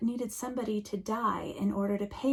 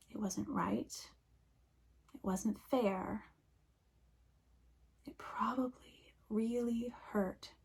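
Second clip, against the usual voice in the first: soft, near-whispered lament; hushed grief; 5 dB quieter than usual. Acted. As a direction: let each short line fall quietly. Grieving over the killed raccoon.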